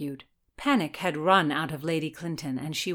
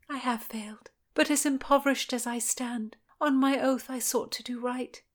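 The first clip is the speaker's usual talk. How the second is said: put-on young lady voice; 6 semitones higher than usual. Constance, higher.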